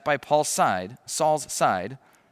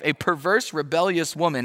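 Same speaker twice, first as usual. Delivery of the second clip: higher, amazed retelling of "perverse"; incredulous repeat; 5 semitones higher, 4 dB louder than usual. Real, not acted. Preacher repeating Saul's insult in disbelief, higher and amazed. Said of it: "He just called Jonathan's mother".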